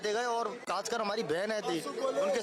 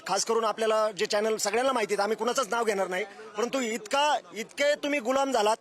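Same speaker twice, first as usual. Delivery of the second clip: loud, rising scorn at the media; angry denunciation; 5 dB louder than usual. Real, not acted. Protester attacking national media to the camera, loud and angry. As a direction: hurl the accusation at the channels.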